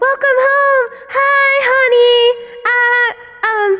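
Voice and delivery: high, bright welcoming wife voice; sweet welcome home. Pretend. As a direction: greet someone coming home sweetly. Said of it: "say it like you're welcoming someone home".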